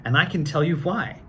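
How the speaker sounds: lively storybook reading; reading to children. A narrator's reading. Actor reading Doctor Seuss to children in a lively voice. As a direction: read it out like story time for kids. Reads book aloud to children.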